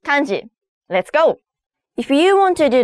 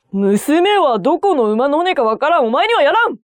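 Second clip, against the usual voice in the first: stern father refusing; 3 semitones higher, faster than usual. Acted.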